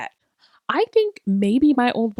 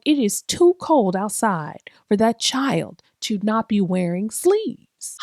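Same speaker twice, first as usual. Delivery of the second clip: put-on old black woman. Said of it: "I don't know why I have become this".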